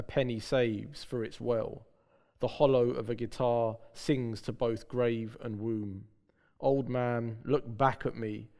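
slow, measured poetry recital; poem reading. Acted. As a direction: read each line slowly, like a poem. Poet reads his poem aloud.

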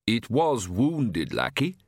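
slow, mildly placating parent; conciliatory, parental. A narrator's reading. Father placating his vexed child, conciliatory. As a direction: soothe the child, with slightly strained patience. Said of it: "This voice sounded conciliatory, parental".

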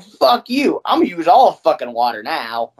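mock snapping back at the landlord over the water fee; mock defiance. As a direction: spit it back at them, half joking. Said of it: "It's like".

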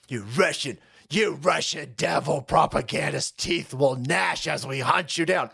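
a lightly done deep mock accent. Host mocking Ukrainian threats with a deep mock accent. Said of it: "mentally ill accent".

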